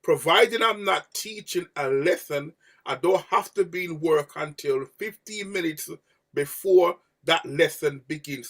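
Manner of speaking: slow, official quote reading; quoting the rules. Shown as a demonstration. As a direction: recite it like the contract. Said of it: "and I quote".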